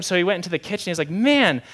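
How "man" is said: higher, drawn-out grumble of disbelief; exasperated disgust. Retold or imitated. Grandpa moving to the kitchen, exasperated by the stink. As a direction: complain slowly, pitched up, fed up.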